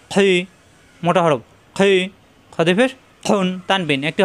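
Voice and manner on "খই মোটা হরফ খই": খই with a thick throaty খ; heavy letter. Shown as a demonstration. Teacher repeats the heavy letter, thick খই. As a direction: make the খ of খই full and rasped.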